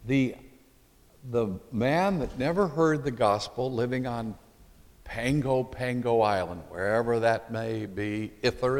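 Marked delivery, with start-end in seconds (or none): none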